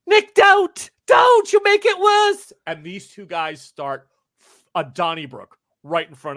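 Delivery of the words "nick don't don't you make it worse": frantic loud pleading yell, much higher; shout. Acted. Bystander yelling at Nick to stop, frantic shout. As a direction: scream at him to stop. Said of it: "And then he goes".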